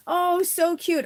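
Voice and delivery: high drawn-out coo of delight. Real, not acted. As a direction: coo slowly with pitch lifted high.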